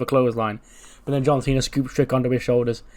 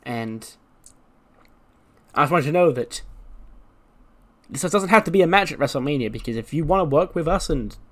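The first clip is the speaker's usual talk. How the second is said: higher, breezy mock apology; lightly higher put-on Mandy voice; 3 semitones higher than usual. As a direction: play her as a fake-sweet rival. Mandy's promo voiced by teller.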